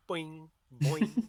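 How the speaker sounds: springy cartoon bounce noise; leaping boings. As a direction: bounce each boing upward playfully. Acts out mirthful leaping noises.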